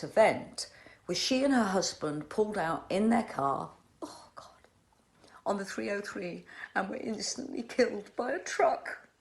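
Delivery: fighting back tears as she tells it; real grief breaking through; choked up. Real, not acted. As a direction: voice dropping to a tearful whisper. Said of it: "I'm sorry I got emotional".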